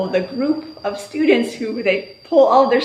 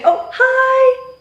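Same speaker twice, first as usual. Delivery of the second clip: mock surprise; 13 semitones higher, 4 dB louder than usual. Shown as a demonstration. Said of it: "And then I'll say".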